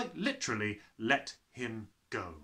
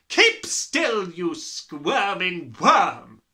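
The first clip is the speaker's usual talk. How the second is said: loud, slow, menacing giantess; bullying headmistress; 5 semitones higher, 11 dB louder, much slower than usual. Acted. Headmistress scolding the boy in her grip. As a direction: spit the insult down at him. Trunchbull voice.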